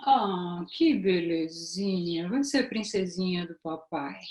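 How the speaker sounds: lightly acted, drawn-out coo; visitor cooing at baby girl. Visitor meeting a newborn girl, lightly voiced sweet cooing. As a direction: coo gently, stretching "belezinha". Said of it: "a entonação de voz".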